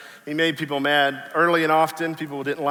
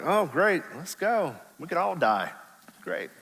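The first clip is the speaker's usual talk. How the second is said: dry sarcastic deadpan; lightly sarcastic Thomas; 3 semitones higher, 3 dB quieter than usual. Retold or imitated. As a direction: roll your eyes as you say it. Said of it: "I read sarcasm".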